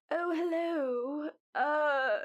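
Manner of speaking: lightly voiced old granny greeting; old lady voice. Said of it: "she comes in like".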